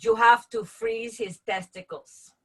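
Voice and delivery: slow, emphatic imitation of mom; lightly voiced mom, words drawn out; comedian's mom. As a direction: play a mother slowly handing down advice. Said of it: "my mom said".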